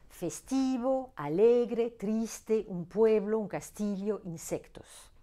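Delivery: festivo, alegre, triste stressed on TI, LE, TRIS; a spaced word list, stressing the TI of festivo and LE of alegre; next-to-last syllable punched, as in castillo and insectos. Shown as a demonstration. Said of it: "l'accent tonique sur l'avant-dernière syllabe".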